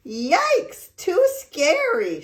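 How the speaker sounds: high, loud frightened yikes; high scared cry. A narrator's reading. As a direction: squeal in fright as the bed folds. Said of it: "she cried".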